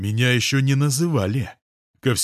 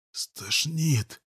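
higher, softer, choked mumble; strangled mutter; 6 semitones higher, 4 dB quieter than usual. A narrator's reading. Nauseous girl in his arms, strangled mumble. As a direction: squeeze it out, about to be sick. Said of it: "сдавленно пробормотала".

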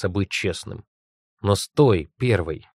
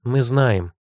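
curt; 2 semitones higher than usual. Acted. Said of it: "осадила она".

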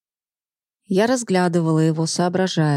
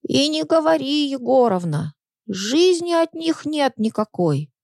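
put-on old woman voice; 3 semitones higher than usual. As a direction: sigh and complain like a babushka. Second old woman gossips.

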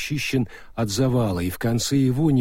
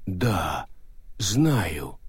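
slow stone monotone; 4 semitones lower, 3 dB quieter than usual. Acted. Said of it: "сказал призрак голема".

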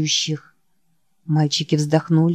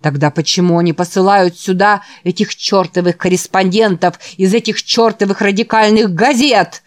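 disgusted shout. Acted. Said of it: "кричал Гарднер с выражением, похожим на отвращение".

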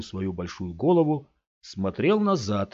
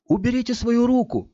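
higher, louder angry order; indignant demand; 4 dB louder than usual. Acted. Scott ordering the man to remove his hand, loud and indignant. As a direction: snap at him to let go. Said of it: "добавил он уже более низким голосом".

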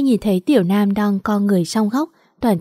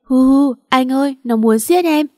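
higher, loud wailing sobs; loud fake sobbing; 4 semitones higher, 4 dB louder than usual. Tâm wailing to Trung, loud sobbing plea. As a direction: sob it out to win him over. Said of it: "ả khóc loạn lên".

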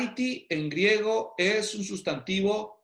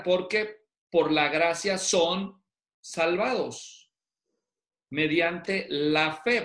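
slow verse reading; slower than usual. Shown as a demonstration. Reads verse slowly word by word.

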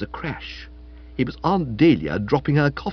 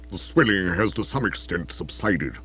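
lower, feeble gentleman's voice; lightly voiced invalid, softer; weak voice; 5 semitones lower, 4 dB quieter than usual. A narrator's reading. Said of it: "in what for him was rather a weak voice".

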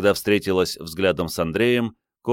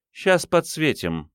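menacing voice; 9 semitones higher, slower than usual. Acted. Threat from the dark.

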